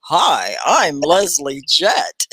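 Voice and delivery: slow, overdone TV-host greeting; Leslie Jett. Retold or imitated. Teacher imitating her showy VJ friend greeting a room. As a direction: stretch the hello like a showy on-camera VJ. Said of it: "He would walk in the room and go".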